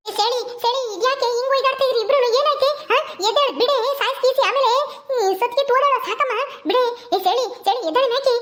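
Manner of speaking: high, urgent scolding; urgent alarm. Acted. Bystander ordering fighting women apart, high and urgent. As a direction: break up the fight in a high, pressing voice.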